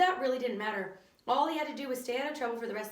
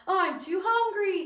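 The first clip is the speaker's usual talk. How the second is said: put-on 1 whiny kid; 9 semitones higher, 7 dB louder, slower than usual. A narrator's reading. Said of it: "said Terrence".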